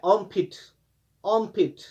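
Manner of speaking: आर्मपिट said "ompit" without the r; r silent. Shown as a demonstration. Teacher repeating the right form for students. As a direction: drop the r in आर्मपिट. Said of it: "इसमें silent रहता है".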